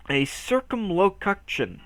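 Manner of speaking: unsure, drawn-out attempt at "circumlocution"; stumbling pronunciation. Real, not acted. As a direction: sound out "circumlocution" wrongly as circum-loke-uction. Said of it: "what the frick is that word?".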